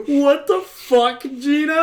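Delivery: mock outrage at an old lady's angry react; disbelief. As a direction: drag it out in amused shock. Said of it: "And I was like".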